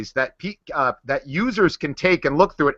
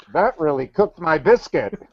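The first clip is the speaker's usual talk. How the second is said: action figure voice. Pretend. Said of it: "that muffled action figure speaker voice".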